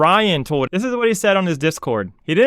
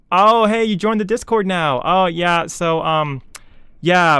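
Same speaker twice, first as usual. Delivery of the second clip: mock breezy company announcement. Mocking the company's Discord announcement, breezy and casual. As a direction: toss off the bad news like it's nothing.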